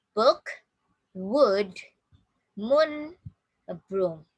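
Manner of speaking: "Book, wood, moon, broom" one at a time, pauses between; "Book, wood, moon, broom" spaced out for repeating; word drill. Shown as a demonstration. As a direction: say "Book, wood, moon, broom" as separate model words, sounding the vowel. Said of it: "Listen and repeat".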